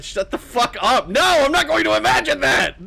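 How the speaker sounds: high, loud comic outburst; mock-horrified screamed refusal; outraged yell. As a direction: shout down a disgusting idea, voice shooting up. Acts out outraged refusal to imagine.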